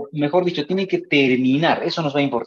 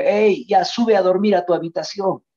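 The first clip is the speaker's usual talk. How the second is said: imitated mother; 5 semitones higher than usual. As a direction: call out like a mother sending a child up. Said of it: "imagínate que tu mamá te diga".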